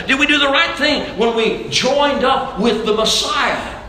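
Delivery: preacher pressing through to a pointed question; forceful preaching. Acted. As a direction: preach it, building into the anxious questions. Preaches with rising force to congregation.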